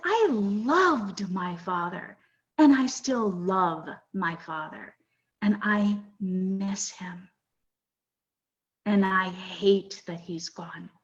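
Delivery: slow, sincere retelling of grief; measured, earnest, lingering on the feeling; heartfelt declaration. Retold or imitated. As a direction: draw each word out, letting the love and loss land. Retells declaring love for late father.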